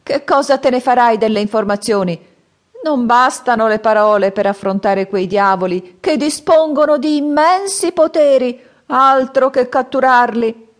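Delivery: high, loud, slowing at the end; grave old man's warning. Acted. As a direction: warn the boy, weighing each word. Old man warns of demons. (vecchio che ammonisce, voce alta e forte)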